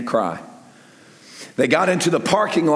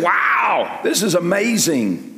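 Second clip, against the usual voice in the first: mildly hammed-up awe, pitched up; amazed crowd; 3 semitones higher, slower than usual. Preacher voices the crowd fed by Jesus, mock amazed. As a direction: marvel like an onlooker at a miracle.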